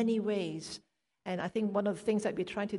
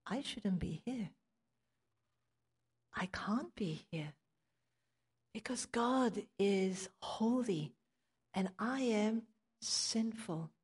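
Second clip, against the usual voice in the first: awed hush; 4 dB quieter than usual. Retold or imitated. Isaiah realizing he is unworthy.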